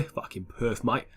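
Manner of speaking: put-on a shaky, half-hearted Australian accent on "mate"; mock Aussie banter, badly faked Australian accent. Gamer mocks Perth Glory in a badly faked Australian accent. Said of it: "That was a shite Australian accent".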